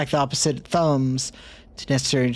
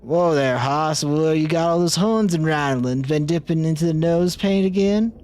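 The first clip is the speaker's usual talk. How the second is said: cowboy voice; 2 semitones higher than usual. Acted. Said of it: "Gabby doesn't talk like that".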